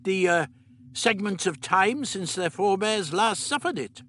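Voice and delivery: lightly voiced elderly scientist; the Doctor. A narrator's reading. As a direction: play the Doctor, matter-of-fact.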